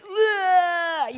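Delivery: a high pitched ugh of strain; high grunt of effort. Shown as a demonstration. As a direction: show the effort of preaching with one grunt. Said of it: "when I speak, I don't just speak".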